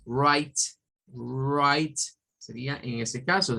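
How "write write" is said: "write" as "rait", silent w; "write" drawn out, starting on r; English pronunciation demo. Shown as a demonstration. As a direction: model "write" clearly with an English r. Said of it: "Si fuera de escribir".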